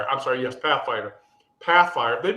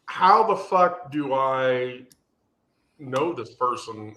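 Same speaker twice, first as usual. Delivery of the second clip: slow, drawn-out puzzlement; baffled; slower than usual. Retold or imitated. Puzzling over a stranger in the connections, slow and baffled. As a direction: spell out the bafflement word by word, slowly. Retelling own baffled reaction to profile.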